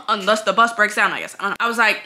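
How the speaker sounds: ordinary talk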